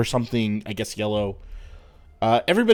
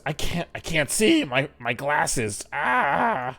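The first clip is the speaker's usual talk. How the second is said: put-on higher, fretful old woman without her glasses; old lady fumbling; 5 semitones higher, slower than usual. Old lady who can't find her glasses, higher and fussing. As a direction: squint and fuss like a half-blind granny.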